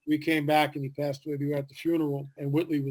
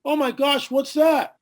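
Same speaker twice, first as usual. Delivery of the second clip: surprised; 10 semitones higher, 5 dB louder, slower than usual. Retold or imitated. Crowd sees implant appear.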